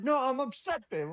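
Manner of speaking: high, loud cute protest; hammed-up cute upset voice; mock upset girlfriend. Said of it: "She's like".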